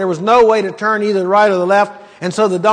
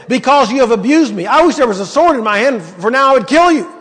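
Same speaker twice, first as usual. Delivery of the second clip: a touch of rising anger, pitched up; angry threat; 4 semitones higher than usual. Acted. Balaam threatening the donkey, mildly angry and raised. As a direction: threaten the beast in a mild temper.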